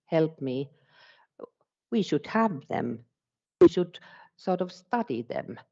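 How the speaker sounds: the teacher's voice, only lightly put on; voicing a teacher. Voicing a teacher's changed mindset.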